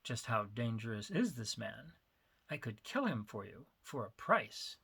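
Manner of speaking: low, cool and unhurried offer; calm menace of a drug dealer. Acted. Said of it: "with characteristic coolness".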